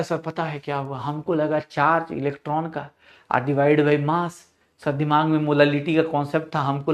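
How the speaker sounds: student imitation. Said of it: "तो बोलता है".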